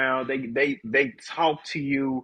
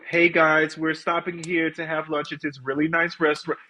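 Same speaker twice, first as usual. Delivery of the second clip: mock bubbly YouTuber voice; lightly mocking an influencer talking to camera; 3 semitones higher than usual. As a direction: imitate a fake-cheery vlogger greeting. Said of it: "it's so we".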